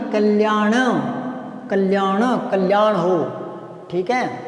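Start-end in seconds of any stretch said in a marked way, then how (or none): 0.1-3.2 कल्याण ending in retroflex ण; correct pronunciation. Shown as a demonstration. Teacher corrects कल्याण for students, retroflex ण. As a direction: land the final ण of कल्याण with the tongue curled back. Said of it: "कल्याण नहीं".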